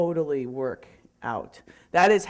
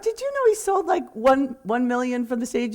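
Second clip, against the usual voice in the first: excited; 6 semitones higher than usual. Retold or imitated. Excitedly telling Dave about Bob.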